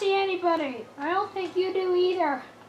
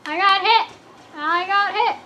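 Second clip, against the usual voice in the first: alarmed repeat; 2 semitones higher, 8 dB louder than usual. Real, not acted. Taking damage repeatedly.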